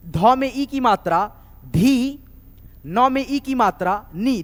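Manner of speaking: slow, steady recital of each letter plus ई; syllable drill. Shown as a demonstration. Teacher drills consonant plus long i with the class. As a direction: spell out each pair slowly, like a chant. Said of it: "drilling syllables for students".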